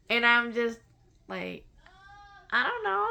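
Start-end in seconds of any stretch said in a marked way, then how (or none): 2.5-3.1 high and loud flustered answer; startled reply. Retold or imitated. Answering the impatient dragon, startled and high. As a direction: blurt it out, caught off guard.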